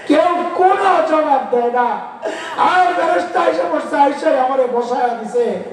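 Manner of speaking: walk the listeners through their own death; mournful preaching voice guiding an imagined burial; guided death meditation. Acted.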